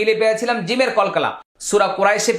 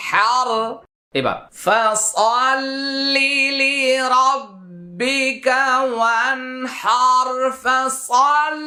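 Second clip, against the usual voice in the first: Quran recitation; 3 semitones higher than usual. Shown as a demonstration. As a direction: chant the verse for them to copy. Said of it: "আবার মুখের দিকে লক্ষ্য করুন".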